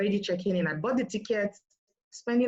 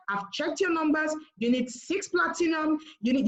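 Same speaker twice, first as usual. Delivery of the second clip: higher-pitched take on a mentor; a hint of the boss's voice, higher; imitating upline's talk; 6 semitones higher than usual. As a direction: lightly mimic the upline, pitched up. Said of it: "you know the way she talks".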